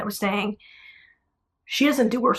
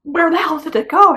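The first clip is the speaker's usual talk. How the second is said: high, loud, baffled demand; retold alarm; 8 semitones higher, 6 dB louder than usual. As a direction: jump up in pitch, acting out the disbelief. Retold shock at missing implant.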